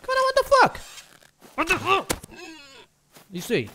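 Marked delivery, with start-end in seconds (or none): 0.1-2.1 much higher, louder shocked cry; shocked outburst. Real, not acted. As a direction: yelp in disbelief. Shocked reaction in game. (grito de espanto, bem agudo)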